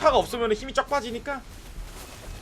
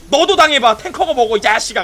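excited game yell; 3 semitones higher, 10 dB louder than usual. Real, not acted. 게임 중 흥분해 외침.

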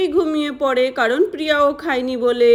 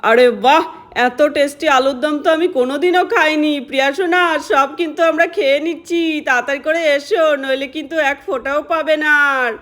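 loud teasing praise. Acted. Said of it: "কত জোরে জোরে বলছে".

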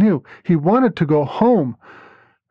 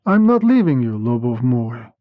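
a reassuring hint of tenderness; gently; 4 semitones lower than usual. A narrator's reading. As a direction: lover soothing his partner, gently. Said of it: "he said gently".

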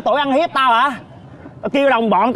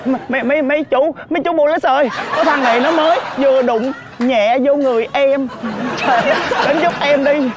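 mock victim; 4 semitones higher than usual. Calls police over a light touch.

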